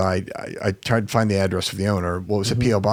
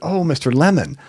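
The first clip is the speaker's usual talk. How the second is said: acted out flustered surprise, high surprised exclamation; 7 semitones higher than usual. Speaker retelling a phone call with a seller, mock flustered surprise. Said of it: "Like that".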